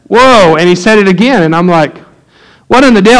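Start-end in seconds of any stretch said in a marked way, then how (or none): 0.1-0.5 higher, louder mock-stunned whoa; retold shock. Retold shock, curse word repeated. 2.7-3.2 high, exclaimed bafflement; retold disbelief. Retold shocked comeback.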